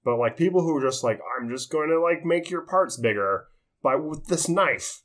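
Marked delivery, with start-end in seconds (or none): 1.4-5.0 higher, slow mock surgeon voice; slow, lightly hammed-up surgeon sales pitch; mock plastic surgeon. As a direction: drawl it like a smug surgeon with a knife.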